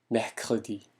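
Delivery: mercredi with both Rs from the throat; French R demo. Shown as a demonstration. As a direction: say mercredi, first R near a "g", second a windy "h". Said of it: "따라서 연습해 보세요".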